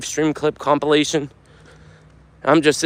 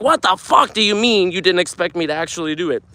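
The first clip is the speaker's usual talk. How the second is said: angry; 4 semitones higher than usual. Retold or imitated. Repeats the indignant rant.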